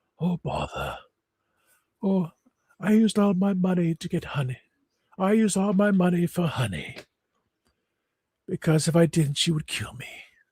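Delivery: soft, high cartoon bear voice. Speaker doing jokes about voice actors, in a Winnie the Pooh voice. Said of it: "does the voice of Winnie the Pooh now".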